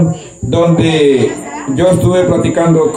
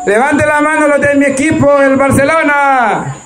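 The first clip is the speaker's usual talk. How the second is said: quoting Nano; 9 semitones higher than usual. Retold or imitated. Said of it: "dijo Nano".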